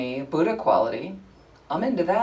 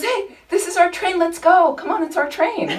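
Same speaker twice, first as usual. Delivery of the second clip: imitating the stranger; 13 semitones higher, 5 dB louder than usual. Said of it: "but he goes".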